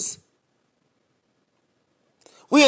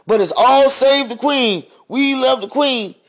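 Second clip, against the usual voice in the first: mock cheer; 4 semitones higher than usual. Mocking Queen's fans with a sarcastic cheer. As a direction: parody fans gushing over the Queen.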